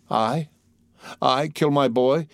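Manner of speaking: mother aghast at the accusation; distracted cry. A narrator's reading. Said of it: "cried the distracted mother".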